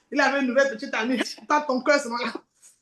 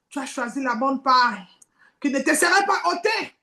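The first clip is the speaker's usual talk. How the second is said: gentle divine voice. Acted. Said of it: "j'entends la voix qui me dit".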